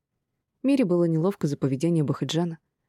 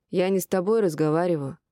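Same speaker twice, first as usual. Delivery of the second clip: пьяная невнятная речь; говорить, как пьяный; заплетающийся язык. Acted. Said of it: "Язык его заплетался". (заплетающимся языком)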